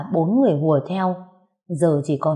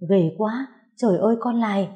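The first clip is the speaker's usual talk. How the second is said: mild horrified cry; 4 semitones higher than usual. Acted. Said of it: "má chồng tôi hét lên".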